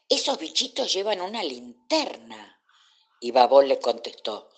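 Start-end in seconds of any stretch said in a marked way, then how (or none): 0.1-2.6 high-pitched wide-eyed wonder; astonished. A narrator's reading. Dolores discovering the glowing little bugs, astonished. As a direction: marvel at it in a high voice. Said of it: "dijo Dolores asombrada".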